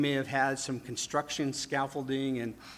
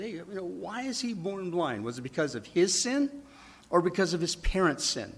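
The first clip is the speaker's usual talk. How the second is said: raised, questioning disciples' voice; disciples asking; 5 semitones higher than usual. Retold or imitated. Preacher voicing the disciples asking Jesus, puzzled.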